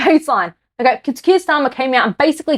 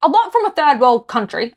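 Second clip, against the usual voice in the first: getting angry; 2 semitones higher than usual. Real, not acted. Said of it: "I'm getting angry".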